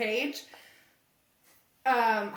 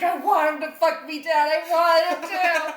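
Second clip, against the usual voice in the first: defiant daughter; 2 semitones higher, 5 dB louder than usual. Retold or imitated. Daughter defying father in acted quarrel.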